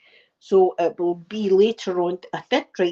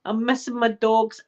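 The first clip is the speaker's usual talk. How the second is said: mild mock crying; higher, half-hearted whimper that settles down; retold tearful wail; 3 semitones higher than usual. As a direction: imitate yourself lightly whining in tears. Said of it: "oh, crying and going".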